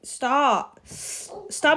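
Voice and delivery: breathless whispered plea; out of breath from laughing, asking him to stop. Real, not acted. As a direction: gasp it out, too weak from laughing. Laughing, stomach hurts.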